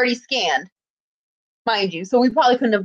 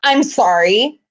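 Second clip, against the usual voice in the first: unbothered mock apology; condescending apology; much slower than usual. Guest relations lady to a complaining fan, condescending. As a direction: imitate an apology that isn't meant. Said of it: "she was so condescending".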